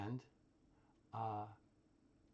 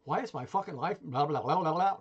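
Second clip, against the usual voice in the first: muted disbelief building to louder blah-blah rant; mock F-bomb rage; 2 semitones higher, 5 dB louder than usual. Imagining someone losing it over a stray thought, mock rage. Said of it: "F-bomb rage".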